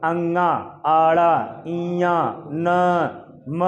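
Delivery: अंगा, आड़ा, इया, न, म hummed slowly through the nose; nasal sounds demo. Shown as a demonstration. Teacher shows the class slow nasal sounds through nose and mouth. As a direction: draw out each nasal sound, low and slow. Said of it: "आप बोल के देख सकते हैं, बोलिए".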